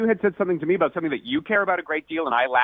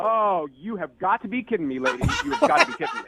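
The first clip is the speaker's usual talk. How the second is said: incredulous outrage; 5 semitones higher than usual. Retold or imitated. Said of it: "And I was like".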